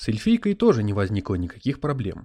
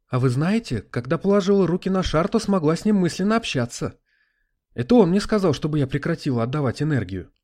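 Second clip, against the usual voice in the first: put-on higher, louder excited girl; exclaiming; 6 semitones higher, 4 dB louder than usual. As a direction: blurt it out in excitement. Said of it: "воскликнула Алиена".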